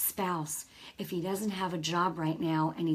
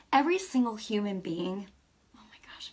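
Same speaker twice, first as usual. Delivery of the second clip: whispering as emotion rises; barely voiced, fighting tears; hushed and moved; choked up. Real, not acted. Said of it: "I'm gonna get emotional".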